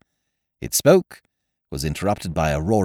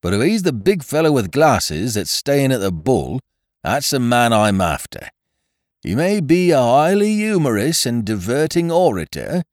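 bitter; 8 semitones higher, 5 dB louder than usual. A narrator's reading. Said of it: "said the constable bitterly".

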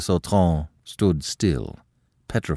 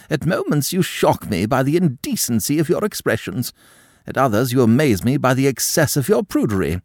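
indignant countess; 6 semitones higher than usual. A narrator's reading. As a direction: scold the girl with wounded pride. Madame mocks bourgeois upbringing.

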